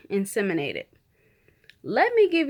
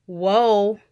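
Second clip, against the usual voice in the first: mock whoa laugh; 4 dB louder than usual. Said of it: "type of laugh".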